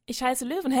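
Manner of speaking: loud, gleeful mouse cry; a joyful shout in flight; laughing shout. Acted. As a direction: call it out laughing into the wind. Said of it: "schrie Löwenherz laut lachend".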